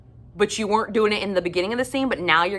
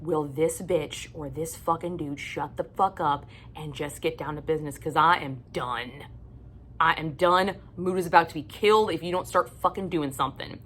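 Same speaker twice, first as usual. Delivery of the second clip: exasperated inner thought; 4 dB quieter than usual. Retold or imitated. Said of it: "sitting there thinking".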